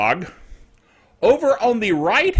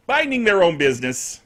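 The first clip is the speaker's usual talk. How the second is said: ordinary talk, nothing marked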